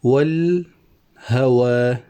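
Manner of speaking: والهوى stretched with a long final alif; slow scansion. Shown as a demonstration. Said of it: "الألف ساكنة". (مدّ ألف والهوى ببطء)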